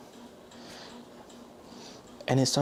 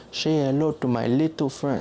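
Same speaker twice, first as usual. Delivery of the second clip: Italian accent imitation; 2 semitones higher than usual. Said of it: "they say it like".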